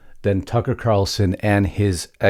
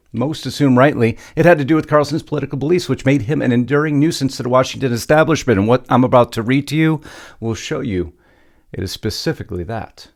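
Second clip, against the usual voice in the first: higher, punchy news-script read; news story read; 5 semitones higher, 4 dB louder, faster than usual. Acted. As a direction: open high and loud, then drive through the story.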